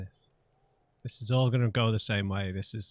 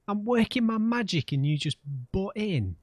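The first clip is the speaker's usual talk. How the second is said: mock exasperation; 9 semitones higher than usual. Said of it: "annoyed at Kim".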